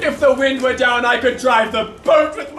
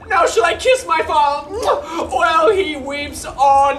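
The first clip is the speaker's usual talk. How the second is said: rueful clown lamenting his dog; comic servant Launce. Acted. Launce to the audience, a mock-tearful clown. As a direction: play the weeping fool for laughs.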